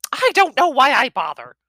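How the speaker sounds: high, loud fed-up mother; mother grumbles at son, high and loud; exasperated mum. A narrator's reading. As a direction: sigh it out as mum.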